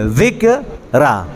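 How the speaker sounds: "ذکرہ" slowed right down, split as "dhik-raa"; exaggerated dhāl demonstration. Shown as a demonstration. Teacher shows how far the tongue goes, slow split "ذکرہ" with dhāl. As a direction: stretch "ذکرہ" with the tongue tip held out. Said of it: "اتنی نوک کو باہر نکالنا ہے".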